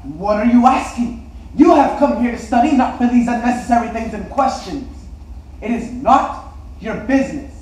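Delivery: loud, indignant rebuke; scolding teacher. Acted. Teacher telling a pupil it is not his business, scolding. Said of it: "he looked at me strangely and said".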